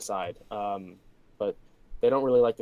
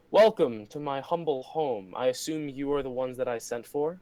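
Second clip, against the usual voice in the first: lightly condescending gracious hostess; a touch of gracious condescension; 2 semitones higher than usual. Acted. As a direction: play a mildly haughty noblewoman welcoming her guests. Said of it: "condescends a little bit".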